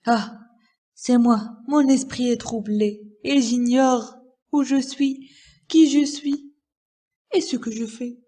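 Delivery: lightly acted dazed distress; bewildered miser. Miser who has seized his own arm, mildly distraught.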